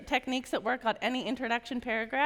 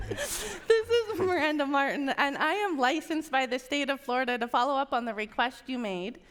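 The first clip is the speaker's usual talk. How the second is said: demo call opener, no pauses. Shown as a demonstration. Agent demos the opener to trainees, smooth and unbroken. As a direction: run the script straight through without stopping. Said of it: "So let's try it again".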